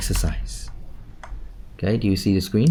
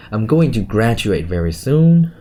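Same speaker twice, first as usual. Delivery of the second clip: "graduate very soon" said louder, with the weight on "soon"; stressed model sentence; 4 dB louder than usual. Shown as a demonstration. Teacher modelling sentence stress for the student. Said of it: "You want to stress on the verb".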